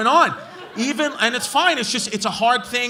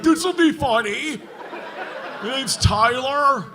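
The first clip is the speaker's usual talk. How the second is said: put-on dumb white kid; 2 semitones higher, slower than usual. Mocking dumb kid in crowd.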